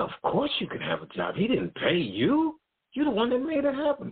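outraged on his behalf, voice climbing; indignant support. Retold or imitated. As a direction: boss insists he deserves the job, in a high indignant voice. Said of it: "He said".

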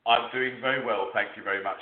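put-on lightly posh British accent; a touch of well-spoken British. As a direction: answer politely in a slightly posh UK voice. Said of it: "I'm talking in my posh, uh, U K accent".

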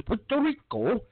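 put-on Puerto Rico with a light Spanish accent, tapped r. Imitating Ocasio saying Puerto Rico in a Spanish accent. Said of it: "Puerto Rico in a Spanish dialect".

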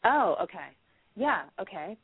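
normal talking voice

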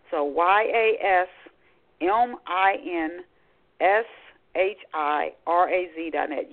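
"Y A S M I N" spelled letter by letter again; spelling it out. Shown as a demonstration. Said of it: "I'm gonna spell it for you".

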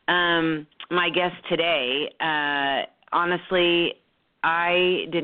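stuffy nose from a two-week cold; nasal cold voice. Real, not acted. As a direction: speak through a blocked, nasal head cold. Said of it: "nasally voice here".

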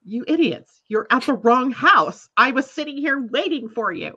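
retold anger. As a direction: vent at the idiots at the wrong house. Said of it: "I really started to get really upset".

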